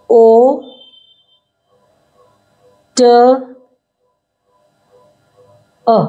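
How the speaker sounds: slow letter-by-letter phonics; spelled out sound by sound; sounding out the word. Shown as a demonstration. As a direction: break the word into single sounds, with long gaps. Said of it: "अब ये मैंने आपको बताया था".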